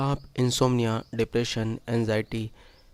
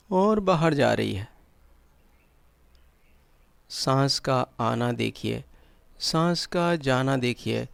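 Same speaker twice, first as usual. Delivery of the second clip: measured meditation guide with long pauses; guided meditation; 3 semitones higher, 4 dB louder than usual. Acted. Guide leading listeners into breath awareness and relaxation, guided meditation. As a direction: guide them step by step, leaving silences between instructions.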